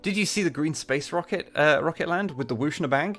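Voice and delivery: put-on lightly high childlike man; a hint of a shrill man-child; piercing voice.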